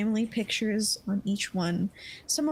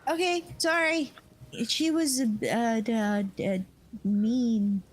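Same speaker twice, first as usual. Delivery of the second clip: put-on sheepish child; slower than usual. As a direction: apologize like a scolded little kid. Child apologizing.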